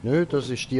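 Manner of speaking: ordinary delivery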